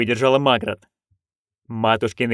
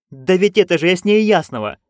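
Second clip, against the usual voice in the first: excited; 5 semitones higher than usual. Acted. Magrat insists, excited.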